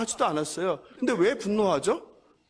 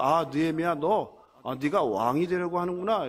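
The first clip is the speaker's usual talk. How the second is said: mock accusation; 4 semitones lower than usual. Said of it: "그 거짓 소문은 무엇입니까?".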